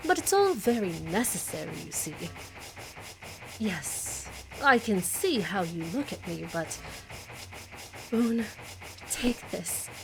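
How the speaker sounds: lightly voiced bored aristocratic villain. Villain dialogue continues.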